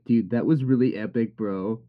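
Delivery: dry sarcastic praise. Shown as a demonstration. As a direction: say it like you don't mean it. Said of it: "You could be sarcastic".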